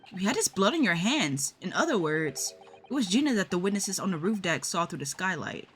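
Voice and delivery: put-on a courteous young woman making a sad farewell; polite assistant voice. Judicial assistant bidding the girl goodbye, softly grave.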